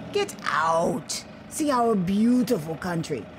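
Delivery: lightly voiced proud Liberian man; a hint of a patriotic official, firm; lightly voiced official telling an American visitor, proud. Official urges her to explore.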